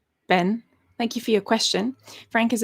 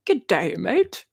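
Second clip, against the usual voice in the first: a lightly put-on Australian accent, playful; 4 dB louder, much slower than usual. Recalling a line for her chat, in a mock Australian accent. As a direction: toss off a cheeky Aussie greeting in Australian accent. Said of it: "Australian mountain lion accent".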